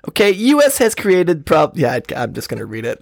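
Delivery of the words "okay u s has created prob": badly faked presidential accent, higher and slow; hammed-up slow, high impression; Trump. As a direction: attempt a drawn-out New York politician, then give up. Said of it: "read this in my best Trump accent".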